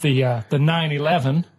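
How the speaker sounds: lightly done American accent. Shown as a demonstration. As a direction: say it like an American tourist. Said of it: "this is American".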